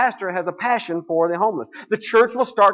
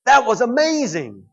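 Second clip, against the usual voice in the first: niece's gushing praise; 7 semitones higher, 5 dB louder, slower than usual. Retold or imitated. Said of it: "comes up to my brother and says".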